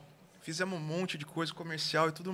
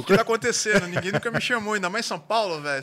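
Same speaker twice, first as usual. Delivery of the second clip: amazed; 3 semitones higher, 10 dB louder than usual. Retold or imitated. Amazed at being recognized.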